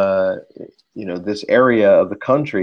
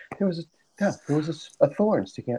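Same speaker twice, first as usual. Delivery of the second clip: mock whisper, much higher, quieter, holding back laughter; 7 semitones higher, 8 dB quieter than usual. Retelling what a woman said, imitating her whisper and holding back laughter. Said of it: "I can't even say it with a straight face".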